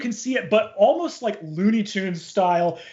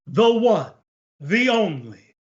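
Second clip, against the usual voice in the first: drawn-out showbiz introduction, rising to a high shout; slow, soaring emcee call; stage announcer; 5 semitones higher, slower than usual. Acted. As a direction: announce the headliner with huge fanfare. Emcee introduces the star singer.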